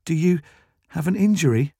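tentative sympathy; sympathetic. A narrator's reading. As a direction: ask with gentle concern. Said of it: "asked Becky sympathetically".

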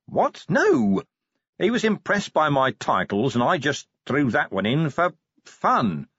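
high, incredulous commander; Vimes, protesting. A narrator's reading. Commander explains the joke to the dwarf, defensively.

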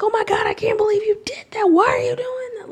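very high, hammed-up shocked outburst; mock gasping disbelief; someone freaking out. Someone reacting to something new, hammed-up high shock. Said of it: "they're like".

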